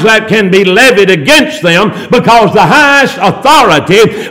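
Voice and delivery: deliberate, stretched preaching cadence; preacherly recitation. Retold or imitated. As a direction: declaim the definition phrase by phrase. Recites a formal definition in preaching cadence.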